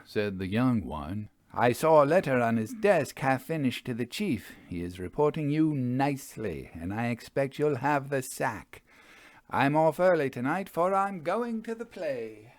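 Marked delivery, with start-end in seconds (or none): 1.5-12.5 higher, breezy lad's voice; a boy carelessly passing on bad news; high chirpy youth heading off; gossiping youth. A narrator's reading. Young Soames gossips, leaves.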